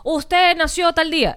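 leve voz de agente telefónico, lenta y aguda; imitando al agente. Retold or imitated. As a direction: pregunta despacio, imitando a un operador. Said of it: "Me decía". (operador apenas actuado, sílabas alargadas)

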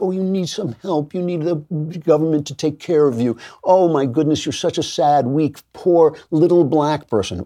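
condescending pity. Retold or imitated. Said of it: "They think".

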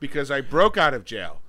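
mock acceptance speech. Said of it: "give an acceptance speech for my movie".

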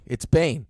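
"Bane" starting with B, matter-of-fact; corrected BANE. Shown as a demonstration. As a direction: say "Bane" with a clear B. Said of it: "because it's wrong".

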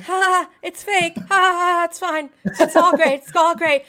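nervous laughing. Retold or imitated. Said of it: "she said that I just kept going".

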